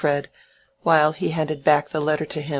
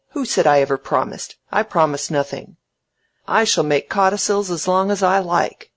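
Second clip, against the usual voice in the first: put-on snappish old tyrant, louder; indignant Featherstone; 3 semitones higher, 5 dB louder than usual.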